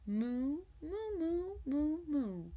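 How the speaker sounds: high cow moos; mooing. Shown as a demonstration. Reader mooing like the cows, pitched high. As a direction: moo like a cow. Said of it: "when cows moo".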